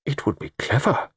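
deliberate, marvelling realisation; slow, dawning appreciation. A narrator's reading. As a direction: weigh the idea as you say it. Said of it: "said Mister Satterthwaite slowly".

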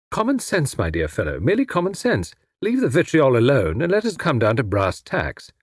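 high-pitched, airy reasoning; breezy captive. Acted. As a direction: reason lightly, lilting up on "common sense". Tommy reasons with captor.

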